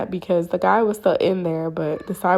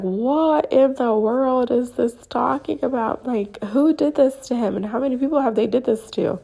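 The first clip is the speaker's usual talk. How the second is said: higher-pitched retold disbelief; bewildered; 5 semitones higher than usual. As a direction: act out baffled questioning. Acting out her bewildered reaction.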